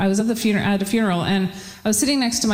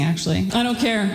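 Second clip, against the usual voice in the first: normal talking voice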